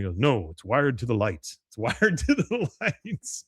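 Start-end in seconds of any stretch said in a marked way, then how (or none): 1.7-3.4 high, slow and drawn-out mock complaint; mock exasperation. Retelling Hank's gripe about the massage music, mock exasperated. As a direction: stretch it out high, breaking into a laugh. Repeats the line for comic effect.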